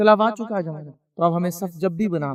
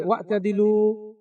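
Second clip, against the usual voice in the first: slow Arabic call; much slower than usual. Retold or imitated. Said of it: "اعلان کرتے".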